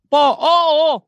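lightly voiced kid answering a parent; mild mock child saying yes, yes to dad; dutiful child on phone. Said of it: "pagkakamag-anak".

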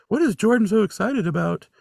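snide miserable neighbor. Retold or imitated. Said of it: "Dawn ... is like".

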